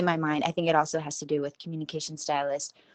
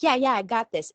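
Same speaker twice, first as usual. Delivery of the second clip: higher, mock self-assured quote; breezy confidence; 6 semitones higher, 4 dB louder than usual. Student sure of Spanish in her mind, mock confident. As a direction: act out cocky inner assurance. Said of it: "more confident".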